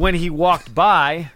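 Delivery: slowed right down. Shown as a demonstration. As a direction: draw the words out slowly. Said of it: "go a little slower".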